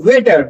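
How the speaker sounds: "वेटर" starting "vay"; ve sound. Shown as a demonstration. Teacher modelling for learners, "वेटर" with "vay". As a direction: open "वेटर" on a "ve" syllable. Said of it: "वे की sound आएगी".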